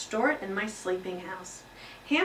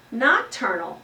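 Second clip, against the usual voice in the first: squeak; 2 semitones higher, 6 dB louder, slower than usual. Acted. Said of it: "I squeaked".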